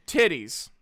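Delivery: deadpan pitch. Pretend. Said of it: "take a sip of coffee".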